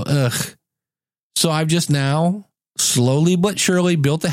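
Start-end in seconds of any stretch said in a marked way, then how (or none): 0.0-0.6 mild imitated groan of disgust. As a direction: groan at the messy kitchen.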